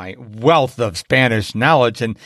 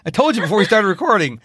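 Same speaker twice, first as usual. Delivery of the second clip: laughing tease; 7 semitones higher than usual. Real, not acted. Teasing guest, laughing.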